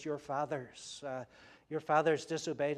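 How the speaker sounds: the writer warning his brothers tenderly. Retold or imitated. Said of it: "He speaks very affectionately, very tenderly".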